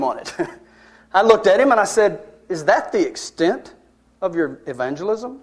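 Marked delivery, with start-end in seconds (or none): 2.5-5.4 challenging. Retold or imitated. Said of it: "I kinda said it like that".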